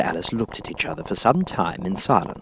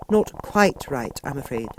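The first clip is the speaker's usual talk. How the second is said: timid; 6 semitones higher, slower than usual. A narrator's reading. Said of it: "said Alice timidly".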